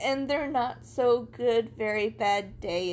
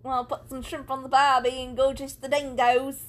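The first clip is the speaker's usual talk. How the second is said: bad Australian accent; 3 dB louder than usual. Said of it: "Australians were like".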